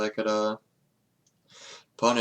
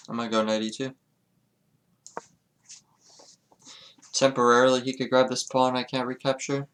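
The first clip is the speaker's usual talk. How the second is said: slightly slurred speech; slurring words. Real, not acted. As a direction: let the words blur together. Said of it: "I don't know why I'm slurring my words so much".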